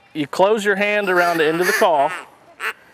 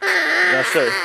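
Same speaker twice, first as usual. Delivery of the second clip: duck call honks; 12 semitones higher than usual. Shown as a demonstration. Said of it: "you're just gonna say tick".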